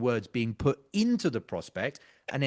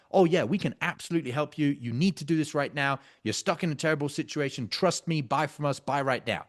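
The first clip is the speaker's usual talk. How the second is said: fast, pushy salesman certainty; hard-sell car salesman pitch; over-certain pushy pitch; 2 semitones higher than usual. Shown as a demonstration. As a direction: oversell it like a pushy closer. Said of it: "That's very certain language, very certain tonality".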